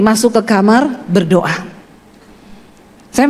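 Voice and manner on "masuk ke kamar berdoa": lightly voiced God, lower and slow; low, measured command, retold as God's. God telling the speaker to go and pray, lightly voiced low command. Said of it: "tiba-tiba dengar suara Tuhan tuh ngomong gini".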